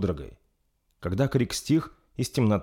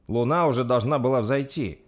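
higher, mildly worried voice; a touch of worry; 4 semitones higher than usual. Acted. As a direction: voice an uneasy remark, pitched up. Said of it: "обеспокоенно произнёс Брун".

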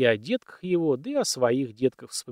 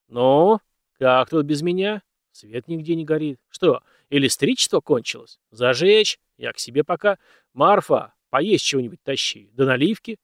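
commanding; 6 dB louder than usual. Acted. Master orders servants around.

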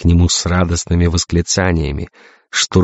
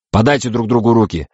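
higher-pitched insistent order; commanding; 5 semitones higher than usual. Acted. Navigator makes captains shake hands, commanding. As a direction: order it impatiently.

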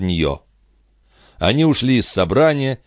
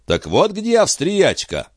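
high, slow gloating exclamation; exclaiming giant; 11 semitones higher, slower than usual. Acted. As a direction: gloat at finding the queen. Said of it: "воскликнул он".

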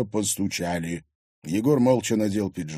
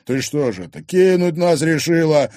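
angry; 7 semitones higher, 8 dB louder than usual. Acted. Thug accusing girl of ditching them, angry. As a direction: press her with rising anger. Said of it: "гневно взглянул на неё Оскар".

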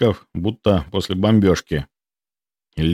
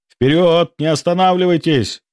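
shout; 9 semitones higher than usual. A narrator's reading. The captain urging the team through turret fire, shouting. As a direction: yell to keep the team running. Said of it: "крикнул я".

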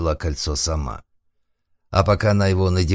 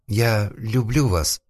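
slow, tearful confession, half-sobbed; sobbing; 5 semitones higher, much slower than usual. A narrator's reading. The girl sobs her love to Pinocchio, slow and tearful. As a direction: choke the words out through tears. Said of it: "всхлипнула девушка".

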